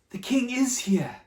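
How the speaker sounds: hushed whispered reveal. Acted. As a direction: let the secret out in a whisper. Shepherd tells boy the secret.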